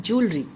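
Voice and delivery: "jewelry" said "JOOL-ree"; two beats for "jewelry", joo first; "joo" sound in jewelry. Shown as a demonstration. Teacher repeating the correction, "JOOL-ree". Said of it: "जू की आवाज़ आती है".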